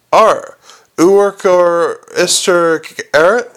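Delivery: consonants dropped, gaping mouth; open-mouthed gargoyle. Acted. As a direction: speak without closing lips.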